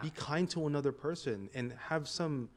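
exasperated. Retold or imitated. Voicing exasperated retort.

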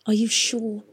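whispered plea; pleading whisper. A narrator's reading. Catherine pleading with Pod for the truth, whispering. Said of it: "pleaded Catherine".

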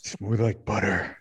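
slow, smooth mock crooner talk; buttery voice. Host showing off to his co-host, mock-buttery voice. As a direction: draw it out, playfully smooth as butter. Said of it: "buttery voice".

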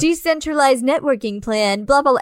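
lightly voiced pompous police chief; mock pompous jargon. Police chief rattling off fancy jargon to April, lightly mocked. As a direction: toss off the jargon like a self-important official. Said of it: "he's trying to use all these big ass fancy words".

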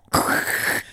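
throaty crackling mouth noise; imitated mouth noise. Shown as a demonstration. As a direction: mimic an ASMR mouth noise. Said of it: "doing the little mouth noise and, like, going".

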